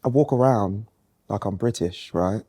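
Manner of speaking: slow, measured British actor; British accent. Pretend. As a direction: put on an understated British accent. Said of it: "I pretend to have a British accent".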